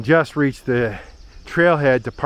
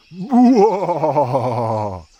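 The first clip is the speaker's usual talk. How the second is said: startled whoa; 3 semitones higher, 4 dB louder than usual. Real, not acted. Reacts to swarming bees.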